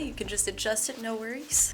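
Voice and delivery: winded from trying on clothes; breathless, puffing between words; out of breath. Real, not acted. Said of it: "I'm out of breath".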